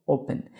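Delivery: "open" stressed on its first syllable. Shown as a demonstration. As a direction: say "open" as O-pen. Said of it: "No O".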